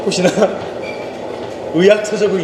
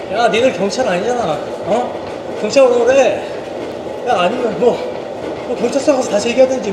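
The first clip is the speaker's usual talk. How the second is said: higher, taunting thug; 5 semitones higher than usual. Retold or imitated. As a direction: sneer it like a cocky crook. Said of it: "이 나쁜 놈이".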